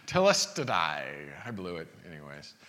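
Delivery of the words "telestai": "Telestai" said with care, stress on the middle syllable; attempted Greek. Shown as a demonstration. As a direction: sound out "Telestai" as the Greek word, half-sure. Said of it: "I'm gonna slaughter it right now".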